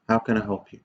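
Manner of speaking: sincere, gentle offer of help; from the heart. Shown as a demonstration. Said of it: "If you say it from the heart".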